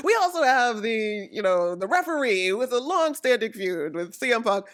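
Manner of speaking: lightly voiced announcer listing feuds; mock commentary, a hint of announcer; imitated announcer commentary. Imitating announcers giving even the referee a feud, lightly voiced commentary. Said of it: "announcers are, you know, doing their commentary".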